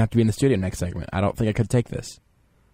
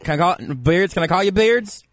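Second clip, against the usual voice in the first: lightly raised voice of a self-styled expert; pompous draft expert. Acted. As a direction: play a smug know-it-all analyst. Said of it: "you might be surprised to know that I sound this way".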